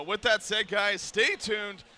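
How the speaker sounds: slow, hoarse, losing voice; strained voice going hoarse. Real, not acted. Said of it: "I'm losing my voice".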